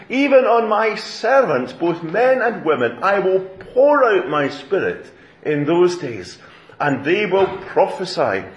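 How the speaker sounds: measured proclamation with punched key words; emphatic scripture reading. Acted. Peter quoting the prophet to the crowd, proclaiming. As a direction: declaim the prophecy, building in weight. Reads prophecy aloud with force.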